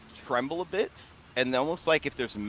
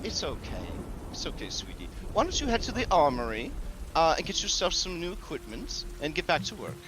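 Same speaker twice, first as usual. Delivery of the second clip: soothing hostess; 5 semitones higher, faster than usual. Acted. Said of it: "and she says".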